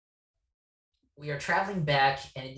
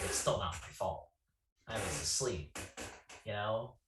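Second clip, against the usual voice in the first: muttered excuse; 5 semitones lower, 8 dB quieter than usual. Retold or imitated. Muttered self-defence.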